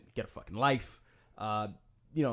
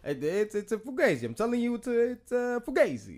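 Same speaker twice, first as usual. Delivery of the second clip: lightly voiced, higher nervous insistence; Johnny Depp role; 9 semitones higher than usual. Johnny Depp insisting to Pacino, lightly voiced higher. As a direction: insist nervously it's fake.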